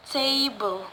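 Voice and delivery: table with TA stressed; stress on first syllable. Shown as a demonstration. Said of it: "put in the first syllable".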